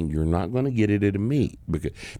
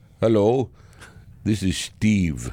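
put-on Indian English accent. Retelling a phone call from a caller, doing his Indian accent. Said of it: "some guy with a with an indian accent calls he says".

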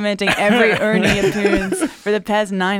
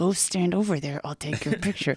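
put-on clenched-teeth voice, quieter; 3 semitones lower, 9 dB quieter than usual. Speaker retelling Isaac's odd behavior, imitating Isaac through clenched teeth. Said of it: "Why are you speaking to me with through clenched teeth?".

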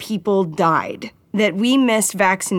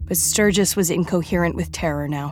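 ordinary delivery, nothing marked

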